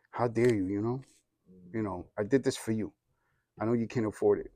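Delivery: low, soft inward resentment; tight, shut down. Retold or imitated. Hurt boy silently addressing dad, tight and shut down. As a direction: hold the grievance in, keep it low and quiet. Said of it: "I got tight and I was shut down".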